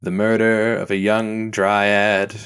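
smooth podcast narrator voice; intoning a murder mystery podcast; true crime podcast host. Retold or imitated. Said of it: "where it's just like".

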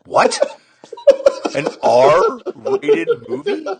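high, loud, drawn-out disbelief; exaggerated scandalized question, stretched slow; mock shock. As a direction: act appalled, voice shooting up. Acting out shock at sleepover movie.

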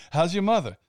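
put-on quoting The Departed in a Boston accent; Boston movie accent. Quoting a Departed exchange to cohost, Boston accent. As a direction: trade insults like a Boston movie tough. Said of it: "those types of act".

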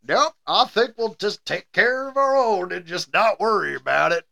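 lightly drawn Southern voice for a German; a hint of Southern accent, played for laughs. Voicing a German who won't call the cops, lightly Southern accent. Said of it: "my German guy is, uh, Southern".

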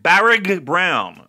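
Barrig Brown slowed, with a hard G; mock misreading. Co-host teasing the font, slow mock misreading. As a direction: Barrig read as the font shows it. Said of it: "according to this font".

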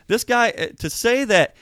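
fired-up indignation, pushing hard; getting heated. Real, not acted. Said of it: "I'm sorry I'm getting heated".

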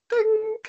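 sharp high bell ding; ding sound. Retold or imitated. Telling how the show idea came, high bell ding. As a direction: chime it out way up high.

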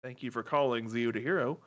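lightly voiced phone operator; polite call-centre greeting; customer service voice. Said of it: "let's do our customer service voice".

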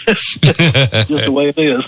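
hoarse, croaky voice from a cold; talking through a bad cold, croaking; froggy voice. Real, not acted. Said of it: "so if I sound like a frog".

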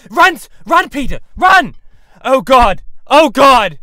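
high, loud panic; hysterical screaming. Acted. Watching Dog kill the agent, hysterical screaming. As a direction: shriek it in horror.

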